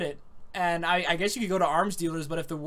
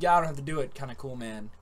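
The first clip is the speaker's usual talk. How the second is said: lazy David impression; 6 semitones lower, 3 dB quieter, faster than usual. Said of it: "it sounded more like".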